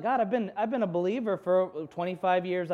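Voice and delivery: incredulous. Retold or imitated. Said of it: "it was kind of a silly question".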